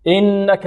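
long nasal n in "إنك"; full ghunna. Shown as a demonstration. Teacher demonstrating fullest ghunna, nasal hold. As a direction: sustain the doubled "ن" of "إنك". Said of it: "والغنة هنا أكمل".

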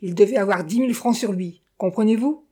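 grating. Acted. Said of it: "grinça-t-elle".

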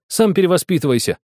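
put-on sudden high snapping girl; blurted retort. A narrator's reading. Girl blurting back at the cocky boy, sudden. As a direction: fire it back at once. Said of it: "вдруг выпалила Светлана".

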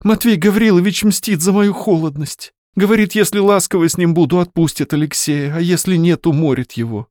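a lightly voiced young woman, anxious; a lightly voiced anxious girl. Varya's worried complaint.

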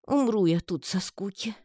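выше, ноющий тонкий голосок; проной это жалобно; жалобный нытьё. A narrator's reading. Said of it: "жалобно проныл". (паучок ноет Татьяне: «Умру я тут со скуки» жалобно и тонко)

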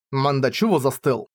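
plain reading voice

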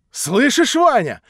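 Natasha cries out. Acted. Natasha crying out to Vanya, anguished. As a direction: call out to Vanya in despair. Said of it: "вскричала Наташа".

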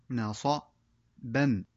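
"نصبا" stretched out slowly, every sound held; very slow, drawn-out reading. Shown as a demonstration. Teacher slowly modelling the full word for pupils. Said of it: "تكون قراءة الكلمات هكذا".

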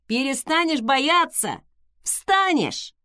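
brisk, upbeat encouragement; rally a scared friend; cheerful reassurance. A narrator's reading. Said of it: "с удвоенной бодростью заверил Дикон".

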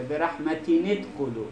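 "رحمتین ادخلوا" linked as rahmatini-dkhulu; "رحمتین ادخلوا" read as one joined phrase; reading form. Shown as a demonstration. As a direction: put an i after the n of "رحمتین" into "ادخلوا". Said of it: "حالت خواندن رو نوشته".

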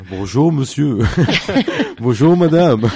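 hammed-up French greeting, with laughs; French accent. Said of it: "alguien que está poniendo acento francés".

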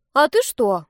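innocent dragon. Acted. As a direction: ask sweetly, no malice. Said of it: "невинно спросил дракончик".

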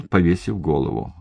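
plain reading voice

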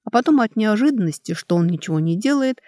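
ordinary delivery

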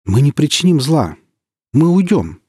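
high, frightened squeak; pleading in a squeaky, trembling voice. Acted. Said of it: "Голос стал немного писклявым, дрожащим".

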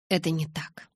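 breathy whisper, barely voiced; a soft reassuring whisper; softly whispered. A narrator's reading. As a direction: whisper it gently to reassure her. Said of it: "мягко сказал он".

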